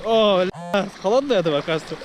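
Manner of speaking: sharp gasps from icy water; shocked by the cold sea; gasping in cold water. Real, not acted.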